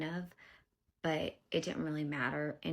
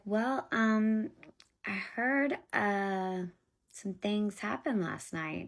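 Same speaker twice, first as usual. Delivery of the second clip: imitating a pushy official, higher and louder; abrasive and aggressive; 5 semitones higher, 4 dB louder, much slower than usual. DCF worker confronts mother about last night, abrasive. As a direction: put on her abrasive voice, pitched up. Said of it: "she's just so abrasive and aggressive".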